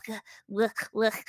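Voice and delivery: animalistic grunt. Acted. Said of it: "more animalistic".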